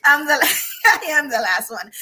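cracking up while saying it; laughing. Real, not acted. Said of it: "I'm my mom's favorite".

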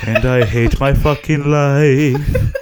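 slow, loud, laughing mope; hammed-up despair. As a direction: overplay the misery, laughing. Hamming the sad character.

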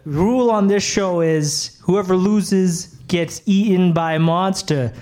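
put-on light New York accent creeping in; game show host slipping into a hint of New York accent; borrowed New York accent. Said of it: "why do you have my accent?".

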